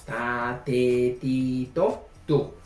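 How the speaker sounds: "ta, te, ti, to, tu" with a simple unaspirated t, like Spanish; plain Spanish-style t in "ta, te, ti, to, tu"; plain t syllables. Shown as a demonstration. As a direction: spell out "ta, te, ti, to, tu" slowly. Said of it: "como niños de inicial aprendemos".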